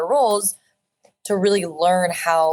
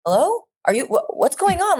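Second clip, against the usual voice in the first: high-pitched, startled concern on the phone; alarmed agent; 11 semitones higher than usual. Retold or imitated. Agent answering her crying client, high and alarmed. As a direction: imitate an agent suddenly worried by the caller. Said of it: "'cause she heard my voice cracking".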